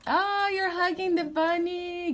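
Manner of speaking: excited. Real, not acted. Mom delighted at toddler hugging.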